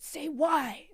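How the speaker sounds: high whispered prompt. Retold or imitated. Teacher whispering a cue to her students, hushed and high. Leading students' chant, retold.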